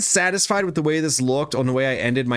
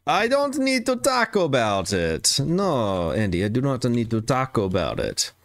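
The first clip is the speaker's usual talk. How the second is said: put-on Italian accent. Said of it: "doing more of the Italian hand".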